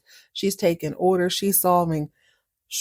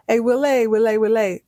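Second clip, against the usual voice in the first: higher, louder coaxing call; mock cajoling; 4 semitones higher, 4 dB louder than usual. Val has to eat crow at the bar, cajoling. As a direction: wheedle his name, hammed-up. Val must go sweet-talk Willie.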